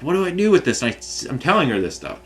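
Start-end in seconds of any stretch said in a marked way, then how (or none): 0.0-0.8 higher, baffled demand; pitched-up what-gives; exasperated question. Retold or imitated. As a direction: toss it up in disbelief. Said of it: "and then I'm like".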